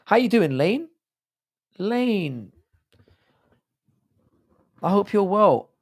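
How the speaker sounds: high-pitched strained greeting; voice going high. Real, not acted. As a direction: voice jumps up high. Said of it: "Why is my voice going like this?".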